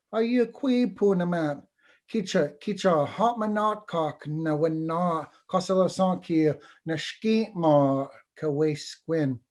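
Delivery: a small wounded bird asking politely for help; a hint of a timid little bird. Little bird asks for shelter.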